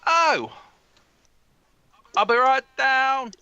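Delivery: loud, high, drawn-out yell; slow, high-pitched shout back; calling back. Acted. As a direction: holler the reply down the stairs. Neil calls back down the stairs.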